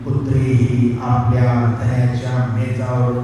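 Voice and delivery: measured Bible reading aloud; sustained, recited scripture delivery. A narrator's reading. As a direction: read the passage out to a congregation. Reads the Bible passage aloud.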